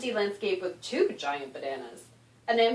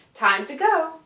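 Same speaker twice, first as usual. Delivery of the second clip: eager call; 9 semitones higher, 9 dB louder, slower than usual. Acted. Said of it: "gnome announces departure".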